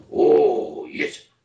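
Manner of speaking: loud, raspy hero voice. Recalling his superhero show roles, the speaker demos the Super Samurai raspy voice. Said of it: "with the rasp".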